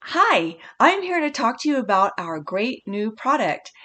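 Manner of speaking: rattled off like a rehearsed script; memorized-sounding line. Shown as a demonstration. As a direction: say it like you memorized it. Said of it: "where it sounds memorized".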